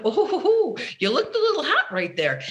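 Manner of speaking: high, laughing, playful ribbing; amused inner witness who isn't mad; teasing inner observer. Retold or imitated. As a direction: tease yourself kindly, with a laugh. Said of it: "my observer comes in and goes".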